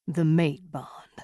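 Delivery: slow, hushed whisper; murmured. A narrator's reading. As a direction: breathe it out softly, barely voiced. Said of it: "he murmured".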